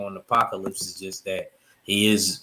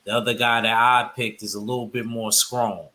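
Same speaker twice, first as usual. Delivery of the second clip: Mississippi accent. Shown as a demonstration. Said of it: "in my Mississippi accent".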